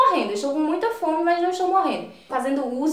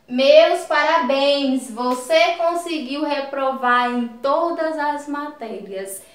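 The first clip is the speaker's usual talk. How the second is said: mild irony; slower than usual. Shown as a demonstration. Teacher demonstrates ironic congratulations for failing every subject, mildly ironic. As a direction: congratulate with understated irony, drawing it out. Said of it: "Isso é uma ironia".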